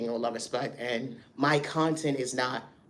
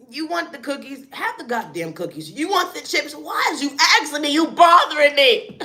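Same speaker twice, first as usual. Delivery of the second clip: higher pitched, irritated mock parent; annoyed guardian; 12 semitones higher, 7 dB louder than usual. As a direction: brush the kid off, done with it. Annoyed guardian snapping at kid.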